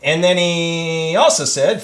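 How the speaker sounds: usual speaking voice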